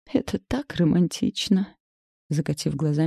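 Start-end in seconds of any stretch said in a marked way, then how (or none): 0.1-1.8 dreamy. Acted. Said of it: "мечтательно произнесла мама".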